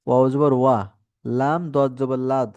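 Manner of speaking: লাম দদ জবর লাদ spelled slowly, letter by letter; slow spelling drill. Shown as a demonstration. Teacher spelling for students, slow and deliberate. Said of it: "teacher spells for class".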